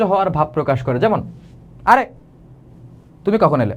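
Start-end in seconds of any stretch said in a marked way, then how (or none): 1.8-3.7 irritated greeting, as if the visitor is a bother; annoyed. Shown as a demonstration. Teacher shows the wrong, annoyed take of a greeting. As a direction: say it fed up with the visitor. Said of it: "আরে, বিরক্ত হয়ে গেছে".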